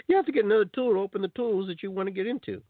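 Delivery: high, laughing through the words. Real, not acted. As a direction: laugh at the silliness while saying it.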